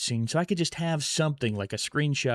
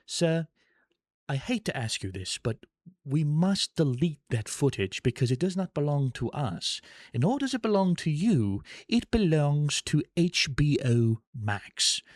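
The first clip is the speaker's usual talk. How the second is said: imitating polite elderly British woman; 4 semitones higher than usual. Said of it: "elderly, uh, British woman ... is like".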